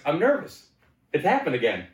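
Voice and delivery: high, mock-panicked squeak; hammed-up nervous whimper. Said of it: "and I was like".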